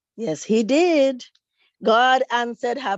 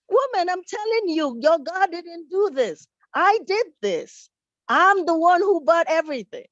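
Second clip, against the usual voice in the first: insistent neighbor; 5 semitones higher than usual. Acted. Atheist neighbor insists he did it.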